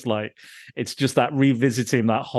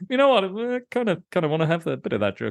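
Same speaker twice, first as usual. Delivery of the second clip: higher, excited quote of the character; mock eager character voice; 6 semitones higher, faster than usual. Podcast host quoting the movie character wanting the drug, mock eager. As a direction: play him giddy for the drug. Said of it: "And he's like".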